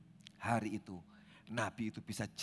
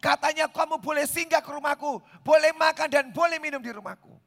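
much higher, louder, gushing flattery; sweet-talking old prophet; 14 dB louder than usual. Acted. Old prophet luring the young prophet home, gushing high flattery. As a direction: coax him in like a smooth old schemer. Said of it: "Nabi tuanya ngomong".

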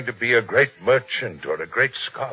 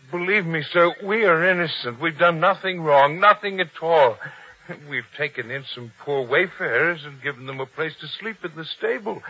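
trembling; 3 semitones higher than usual. Acted. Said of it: "the way you tremble".

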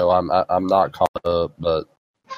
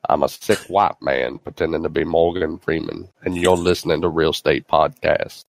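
Morgan Freeman bumper. Shown as a demonstration. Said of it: "do us a sound bumper".

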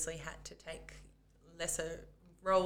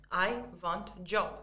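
broken English; much slower than usual. Retold or imitated. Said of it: "Can you, can you do that again? That was brilliant".

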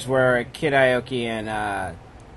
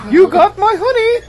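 high growly Pooh Bear roar; angry bear voice; 9 dB louder than usual. Retold or imitated. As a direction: bellow it like a mauling bear. Pooh Bear attacking in Revenant.

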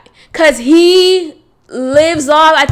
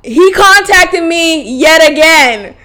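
excited reveal; 4 semitones higher, 3 dB louder, slower than usual. Real, not acted. Revealing ex texted again.

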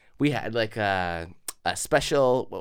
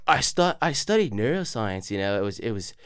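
mock-arrogant, tailing lower and softer; 5 semitones lower, 4 dB quieter than usual. Arrogant Oxford man on his studies, mock smugness. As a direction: imitate an offhand, self-satisfied boast. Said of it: "most arrogant guys I ever met".

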